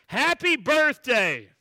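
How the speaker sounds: loud, high, drawn-out birthday shout. Retold or imitated. Restaurant staff surprising the girl as she walks in, shouting. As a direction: yell it out like a surprise party crowd. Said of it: "they all shou-, shouted".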